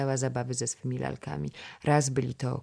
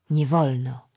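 put-on boy's grumble; 5 dB louder than usual. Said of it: "odmruknął chłopiec".

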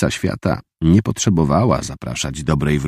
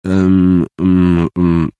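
put-on stammering boy; 2 semitones higher, 5 dB louder, much slower than usual. A narrator's reading. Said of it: "zająknął się".

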